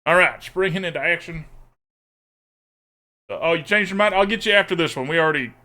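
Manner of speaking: playful put-on southern twang; southern accent. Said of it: "Making me pick a sleeve in the accent's".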